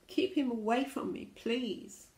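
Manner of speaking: mildly acted squeamish pleading; wailing. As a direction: beg lightly in storybook fear. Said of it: "wailed the Gigantosaurus".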